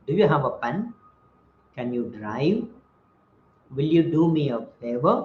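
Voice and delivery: questions lifting on pen, drive and favor; rising tone. Shown as a demonstration. Teacher demonstrating yes-no questions, rising on pen, drive, favor. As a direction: raise your voice on each last word, pen, drive, favor. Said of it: "I raise my voice a bit".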